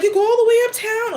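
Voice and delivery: high, fast disbelieving question; surprised question. Retold or imitated. People asking her in disbelief, high and fast. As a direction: act amazed she goes so far uptown. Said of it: "people are like".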